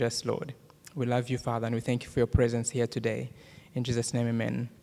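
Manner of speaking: soft, reverent prayer delivery; hushed public prayer. Real, not acted. Opens in prayer.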